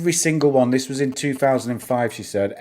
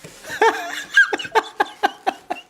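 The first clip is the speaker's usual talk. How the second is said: mock Conor McGregor laugh. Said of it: "That's my Conor McGregor impression".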